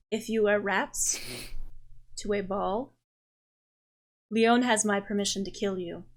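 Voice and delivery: soft, measured mock threat with long pauses; lightly voiced Raphael, deadpan. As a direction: deliver the warning quietly, spacing it out.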